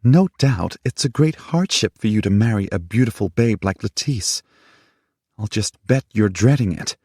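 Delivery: jealous fury, mocking him; bitter sarcasm. A narrator's reading. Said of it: "She glared at him".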